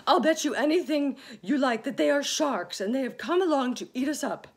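high, loud and fast with a nervous laugh; frightened. A narrator's reading. Earthworm insisting in fear that sharks will eat them. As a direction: insist in panic, rushing. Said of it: "cried the earthworm".

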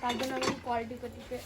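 talking while brushing teeth. Real, not acted. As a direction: speak through a toothbrush. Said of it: "তো আমি এখন দাঁত মাজছি".

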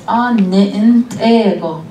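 slow, gentle "Ah, ego" like a blessing; gentle father's words. Retold or imitated. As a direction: draw out "Ah, ego" slowly and tenderly. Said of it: "my father used to tell me".

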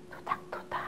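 very soft whisper. Shown as a demonstration. Teacher whispers beside the sleeping baby. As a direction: barely breathe the words. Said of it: "near sleeping baby".

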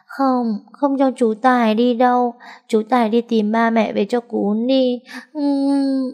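put-on high child's voice, clinging and begging; a small girl who won't let her uncle go; pleading little girl. A narrator's reading. (giọng bé gái cao, nũng nịu van nài)

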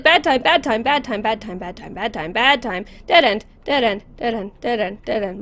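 quick frightened repeats; frantic. Real, not acted. Player trapped in a dead end while fleeing, frantic. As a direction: rattle it off in a panic.

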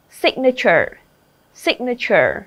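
"signature" as SIG-nature; stress on first syllable. Shown as a demonstration. Teacher drilling word stress for the class, SIG-nature. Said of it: "âm thứ nhất".

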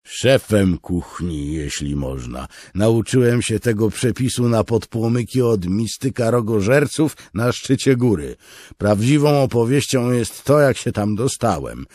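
loud, high grandiose braggart; pompous storyteller. Acted. Beard correcting the soldier with a tall tale, pompous loud. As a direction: inflate the tale shamelessly.

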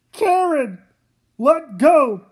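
loud desperate orders; urgent shout. Acted. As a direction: command her to let go. Father sacrifices himself.

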